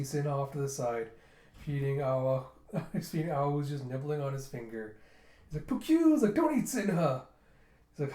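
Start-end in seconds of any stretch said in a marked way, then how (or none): 5.7-7.2 high, loud little animal cry; imitated pet squeak. Pet nibbling on finger, squeaky cry. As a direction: squeak like a small critter.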